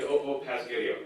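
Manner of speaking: pasghetti with s before g; lightly voiced little immigrant kid saying pasghetti; kid mispronouncing. Comic recalling his childhood lisp, says pasghetti. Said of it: "'cause I was a fob kid".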